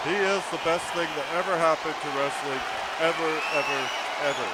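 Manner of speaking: lightly voiced ringside commentator, talking up the wrestler; a mild hype-man commentator voice; hyped-up commentator. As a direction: play the eager ringside commentator. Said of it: "I gotta do all the commentating".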